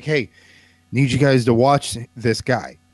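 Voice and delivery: normal talking voice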